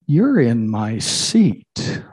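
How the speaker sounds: a cat claiming the throne; haughty cat. Acted. Cat's punchline to God.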